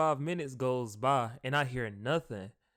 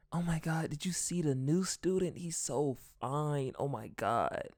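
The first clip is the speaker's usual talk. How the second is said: mild mock whisper; 5 dB quieter than usual. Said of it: "she whispers in my ear".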